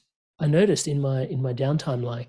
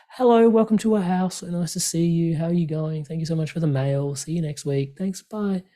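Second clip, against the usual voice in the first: higher, sing-song polite host greeting a stranger; overly polite; 3 semitones higher than usual. Retold or imitated. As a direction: lay the politeness on thick for a stranger at the door. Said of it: "I'd be so polite".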